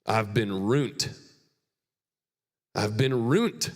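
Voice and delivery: put-on a light rural Burns accent, slow and drawn out. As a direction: quote your friend from Burns in his accent, slowly. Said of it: "it's in his Burns accent".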